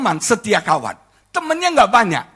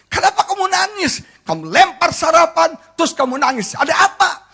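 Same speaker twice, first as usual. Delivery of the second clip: retold annoyed husband; 7 semitones higher than usual. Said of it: "Saya marah dong".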